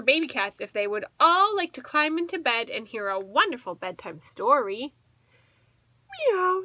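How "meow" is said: higher little meow; a small kitten's meow. A narrator's reading. Orange kitten meows yes to a bedtime story. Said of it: "said baby orange cat".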